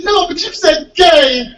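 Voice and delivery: high, slow, giggling hick voice; giggling bumpkin. Retold or imitated. Bumpkin giggling to the comedian about the word he said. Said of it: "He said".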